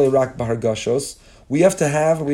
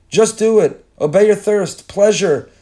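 higher and louder punchy slogan voice; mock ad slogans; 6 semitones higher, 5 dB louder than usual. Rabbi mocks modern culture's ad slogans, punchy hype. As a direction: bark it like a commercial tagline.

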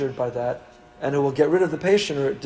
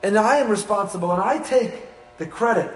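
higher, swaggering brag; boastful self-praise; 5 semitones higher than usual. Retold or imitated. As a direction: sound like someone who thinks he's the best. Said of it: "Only if you consider yourself".

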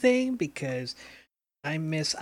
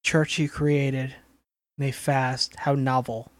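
sarcastic; 4 semitones lower, slower than usual. Real, not acted. Dry mocking remark.

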